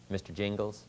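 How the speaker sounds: soft, earnest address to the banker; sincere. Retold or imitated. Mentor coaches him to greet the banker softly and sincerely. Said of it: "just tell the story sincerely".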